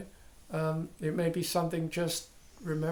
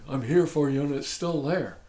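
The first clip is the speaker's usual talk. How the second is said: imitated let-down student, louder on the phrase; mock complaint; 6 dB louder than usual. Student tells teacher the problem is still there, mock complaining. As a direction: protest that the method has failed. Voices students' disappointed report back.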